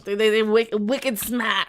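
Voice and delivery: lightly put-on Boston accent; Boston accent with dropped R in "smart". Shown as a demonstration. Host showing what Bostonians say, Boston accent. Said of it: "do a Boston accent".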